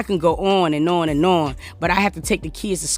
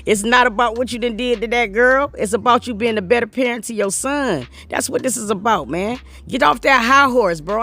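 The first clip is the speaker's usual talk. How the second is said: raised pitch, worked-up lecture; heated rant; 4 semitones higher than usual. Real, not acted. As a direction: call him out, getting fired up. Scolding Chris directly, rising pitch.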